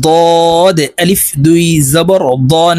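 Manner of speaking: ضاد and দন said with a thick, heavy d, slowly drawn out; heavy Dad. Shown as a demonstration. Teacher drilling the letter for learners, heavy ضاد and দন. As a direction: make the d of ضاد and দন full and heavy. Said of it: "দদ হরফ মোটা করে উচ্চারণ".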